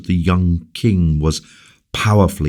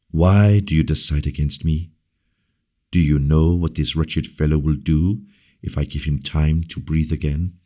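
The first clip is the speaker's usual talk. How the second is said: gently. Acted. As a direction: coax her tenderly. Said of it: "he said gently".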